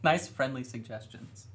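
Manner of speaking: giggling through "Nice"; laughing. Real, not acted. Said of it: "That is nice".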